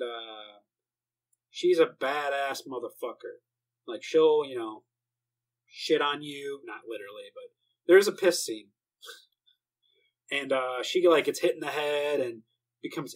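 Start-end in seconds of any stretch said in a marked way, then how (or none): none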